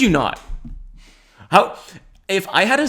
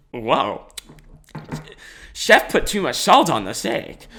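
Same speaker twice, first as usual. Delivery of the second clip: mock complaint; slower than usual. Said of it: "Maybe you don't say it like that".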